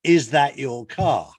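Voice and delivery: slow, lightly voiced admiration; be impressed by his car, drawn out; a touch of wide-eyed admiration; admiring young lady. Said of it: "looking at it with bright eyes".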